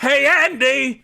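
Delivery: slow, high, loud Aussie call out to Andy; Australian parody accent. Retold or imitated. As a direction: stretch out a hammed-up Australian hail. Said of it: "an entire parody of Australia".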